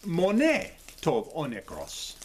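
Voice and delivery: slow "monē tov o nekros", with monē as mo-NAY; approximate Greek pronunciation. Shown as a demonstration. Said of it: "in the way I say it anyway".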